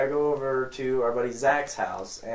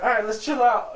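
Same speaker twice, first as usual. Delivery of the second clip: Zach calming him; 9 semitones higher, 4 dB louder than usual. Retold or imitated.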